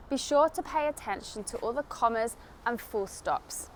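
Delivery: usual speaking voice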